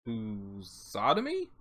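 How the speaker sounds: lusotomy said slowly with a questioning rise; slow unsure reading. Real, not acted. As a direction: sound it out carefully. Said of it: "I don't know what that means".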